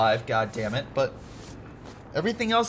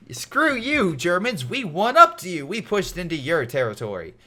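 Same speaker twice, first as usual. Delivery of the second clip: mock taunt; 3 semitones higher than usual. Taunting the enemy side.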